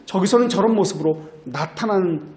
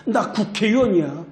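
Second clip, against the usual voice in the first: higher-pitched imitation of an entitled lawmaker; mild mock yelling; 4 semitones higher than usual. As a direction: pull rank on an officer, half-heartedly raised voice. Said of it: "라고 큰 소리를 칩니다". (국회의원이 호통치는 흉내를 가볍게)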